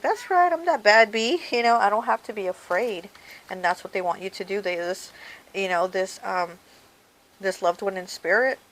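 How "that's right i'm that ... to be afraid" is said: light mock bold voice, up high on the start; confident self-talk. Viewer pumping herself up at the mirror, light mock boldness. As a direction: play the viewer hyping herself up in the mirror, mildly. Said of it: "and be like".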